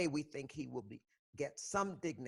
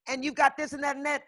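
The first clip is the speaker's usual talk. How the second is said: high, loud mocking voice quoting others; mocking other people; 13 semitones higher, 9 dB louder than usual. Mocking people who question her activism, pitched up. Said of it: "people say, like".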